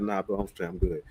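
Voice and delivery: low, soft, worn-out refusal; tired refusal. Retold or imitated. Turning down a friend's invite to go out, low and tired. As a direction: brush him off, too tired to care.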